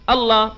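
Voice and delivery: الله said as "alla", no final ha; الله ending open on a, ha dropped; Allah without ha. Shown as a demonstration. Preacher demonstrates Allah said without the ha. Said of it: "بدون الهاء كمان".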